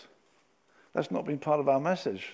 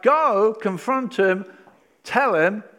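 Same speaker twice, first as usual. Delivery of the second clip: urgent command; 5 semitones higher, 6 dB louder, slower than usual. Acted. God's command voiced forcefully.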